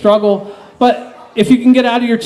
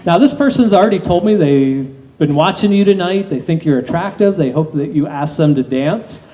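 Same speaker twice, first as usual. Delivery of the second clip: hypnotist induction. Acted.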